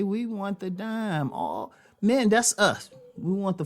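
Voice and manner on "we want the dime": WE high, slow and drawn out; stress on WE. Real, not acted. Host insisting it is all men, stress on WE. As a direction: lean on "we" with a raised pitch. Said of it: "I ain't saying they".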